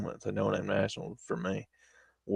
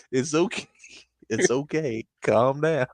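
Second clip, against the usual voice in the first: higher-pitched imitation of calming someone; hushing-him-down words, pitched up in the retelling; retold reassurance; 4 semitones higher, slower than usual. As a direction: act out settling a startled sleeper. Retold calming of startled sleeper.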